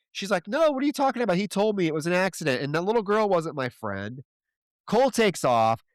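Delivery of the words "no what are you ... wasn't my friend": much higher, quick and confused, imitating her; mock baffled denial, voice jumping high; confused protest. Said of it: "Kimberly's fucking confused".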